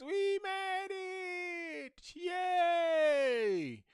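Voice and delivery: very high, drawn-out cheer; celebratory squeal. Real, not acted. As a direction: stretch it into a long triumphant squeal. Celebrating finishing the lesson.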